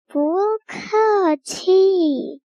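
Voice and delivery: drawn-out, sing-song bear reply; bear's voice. Acted. Bear answering the assistant from inside the hat, drawn-out bear voice. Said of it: "就是大熊的声音说".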